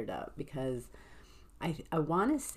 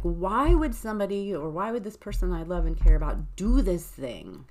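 acted indignation, higher and much louder at first; angry questioning; 4 semitones higher, 7 dB louder than usual. Speaker voices someone hurt by a loved one, angry. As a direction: demand answers in mock anger, pitched up. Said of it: "angrily being like".

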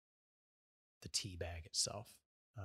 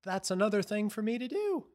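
much higher and louder, fed up; exasperated whine; 12 semitones higher, 11 dB louder than usual. Real, not acted. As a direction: protest it, totally fed up. Exasperated protest.

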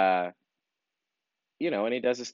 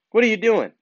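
a much higher, incredulous what are you doing; higher, louder exasperated "what are you doing?"; exasperated outburst; 12 semitones higher, 4 dB louder than usual. Real, not acted. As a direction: throw up your hands in disbelief. Exasperated rant at HR head.

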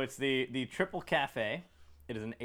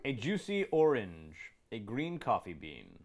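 label read-aloud. Real, not acted. Reading the beer label to friends, measured ad-copy delivery.

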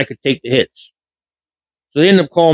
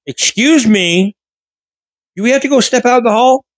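stern teacher; 9 semitones higher than usual. Retold or imitated. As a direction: draw out the excuse me in disbelief. Teacher threatens the hallway.

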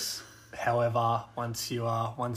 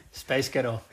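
mock American accent. Shown as a demonstration. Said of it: "deepen my voice enough to come across in, like, an American accent".

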